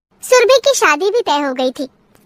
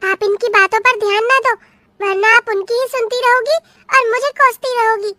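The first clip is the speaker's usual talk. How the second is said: higher, innocent-sounding denial; indignant young bride; 5 semitones higher than usual. Acted. Bride denying the neighbour's accusation to her mother-in-law, higher indignant voice. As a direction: play the wronged daughter-in-law, pitched up.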